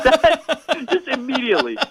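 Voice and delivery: high-pitched laughter; laughing. Real, not acted. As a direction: laugh through the word. Laughing at the comic.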